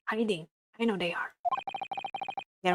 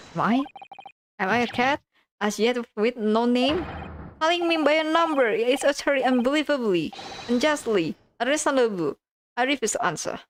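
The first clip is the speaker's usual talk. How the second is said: higher, huffy rant from the cell; indignant prisoner; 4 semitones higher than usual. Acted. Prisoner refuses the lawyer, indignant higher rant. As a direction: protest every word, wounded pride. Soseki complains from his cell.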